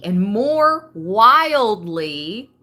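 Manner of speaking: slow and loud, building up; emphatic. Acted. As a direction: let it burst out slowly. Builds list to climax.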